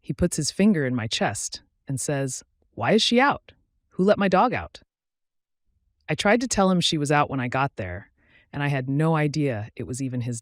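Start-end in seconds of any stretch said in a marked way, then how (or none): 2.8-4.8 angry demand, pitched up; sharp accusing questions in a raised pitch; Tommy Lee Jones. A narrator's reading. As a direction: demand answers, voice rising high. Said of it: "demanding answers".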